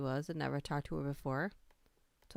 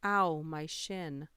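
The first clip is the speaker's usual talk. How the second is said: retold yell; 4 dB louder, much slower than usual. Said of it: "Yelled out".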